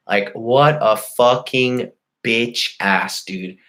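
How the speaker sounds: slow, drawn-out contempt; scornful rant. Real, not acted. Venting at the man who called police, slow scornful rant. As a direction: stretch the insult out with disgust.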